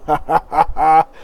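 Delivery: big grinning ha ha ha; a broad, pleased tavern laugh; hearty innkeeper laugh. Acted. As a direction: laugh it out like a jolly barkeep. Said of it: "he smiles, like, the big grin".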